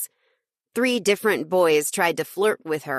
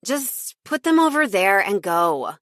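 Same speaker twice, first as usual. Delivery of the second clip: impatient; 3 semitones higher, 3 dB louder than usual. Acted. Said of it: "She waved at me impatiently".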